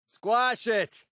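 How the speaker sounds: high-pitched urgent order; combat yell. Acted. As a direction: shout it at a crawling pest. Combat order against bugs.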